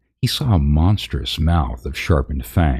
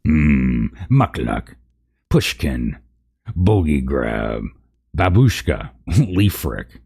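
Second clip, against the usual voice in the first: rasped; slower than usual. Acted. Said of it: "rasped the deeper voice".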